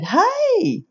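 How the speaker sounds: HEY sung out very high and drawn out; Southern greeting hey. Shown as a demonstration. Southerner answering a known caller, high drawn-out greeting. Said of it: "that's the way it's said".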